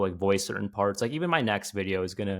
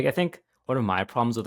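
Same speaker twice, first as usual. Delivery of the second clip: ordinary talk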